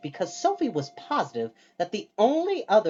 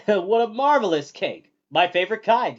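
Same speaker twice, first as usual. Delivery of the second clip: louder, higher, thrilled by the cake; delighted exclamation; 5 semitones higher, 8 dB louder than usual. A narrator's reading. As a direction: gush over the cake.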